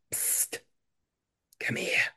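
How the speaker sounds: furtive, very soft psst and call; hushed beckoning. Acted. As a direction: beckon someone over under your breath.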